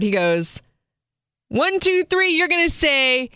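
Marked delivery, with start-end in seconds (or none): 1.5-3.3 exaggerated high up-and-down voice; big sing-song photographer. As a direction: imitate the over-the-top photographer coaxing a kid. Photographer coaxing the child.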